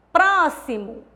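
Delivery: "Próximo" with PRÓ stressed; PRÓ-xi-mo, leaning on the first syllable; stress on antepenultimate syllable. Shown as a demonstration. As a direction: hit the start of "Próximo". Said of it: "a antepenúltima sílaba".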